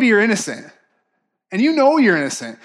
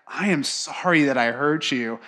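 tender; 4 semitones lower, 4 dB quieter than usual. Retold or imitated. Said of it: "tender moment".

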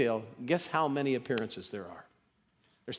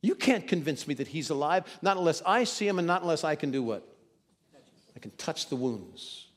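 stubborn doubter. Retold or imitated. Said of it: "You remember Thomas who said".

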